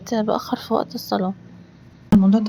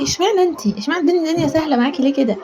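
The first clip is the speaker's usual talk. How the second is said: friends asking; 4 semitones higher, faster than usual. Retold or imitated. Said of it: "صحابي يقولوا لي".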